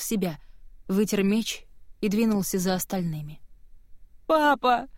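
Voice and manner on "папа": high, loud cry for her father; wailing. Acted. Girl calling to her father as guards drag him, high wail. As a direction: howl for papa. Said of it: "ревела Кива".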